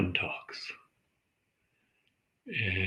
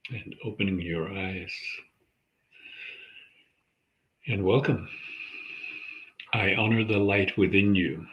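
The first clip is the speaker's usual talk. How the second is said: calm, measured meditation guide; unhurried centering practice, leaving space between phrases; guided meditation. Acted. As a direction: guide listeners gently into their breath, with long pauses.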